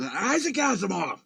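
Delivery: half-voiced swear-word delivery of Isaac Asimov; mock angry curse. Shown as a demonstration. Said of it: "sounds like you get really mad".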